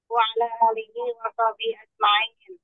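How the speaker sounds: ordinary talk, nothing marked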